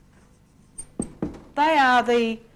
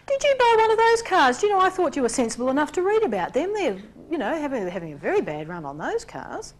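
sugary condescension; 5 semitones higher than usual. Pretend. Charming persecutor voiced.

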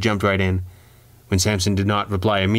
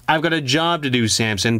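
through gritted teeth; 5 semitones higher than usual. Acted. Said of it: "said through gritted teeth".

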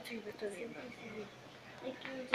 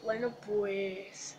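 whispering; 3 semitones lower, much slower than usual. Real, not acted. Hushed wrap-up.

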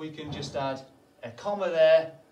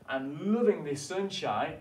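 mildly excited, a little louder; excited exclamation; 3 semitones higher, 5 dB louder than usual. Acted. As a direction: exclaim it with a touch of delight. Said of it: "Miss Todd was really excited about".

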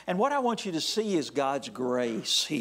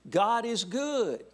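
high ringing call, slow; preacher's call; 6 semitones higher, slower than usual. Acted. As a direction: call it out to the congregation, drawn out. Preacher leads call and response.

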